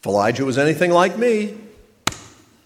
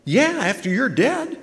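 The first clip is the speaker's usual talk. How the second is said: dry punchline; 11 semitones higher than usual. Acted. Punchline to reassuring line.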